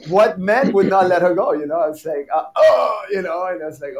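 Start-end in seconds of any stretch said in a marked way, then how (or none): 2.5-3.0 loud, high "oh" of pain; mock pained groan. Dancer kicked while holding his partner, mock pained groan. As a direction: groan as if just struck, playfully. Acts out man hit in the balls.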